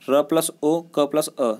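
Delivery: each letter said slowly and apart; slow spelling out. Shown as a demonstration. Teacher breaking रुख into letters for students. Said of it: "रुख का मतलब क्या है".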